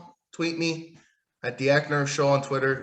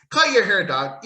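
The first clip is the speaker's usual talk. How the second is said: shout; 3 semitones higher, 4 dB louder than usual. Real, not acted. Shouting at wrestler.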